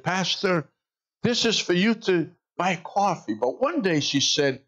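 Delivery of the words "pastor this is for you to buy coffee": put-on high, sweet old lady voice; voicing the old grandmother. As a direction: lift the voice up into a little old lady.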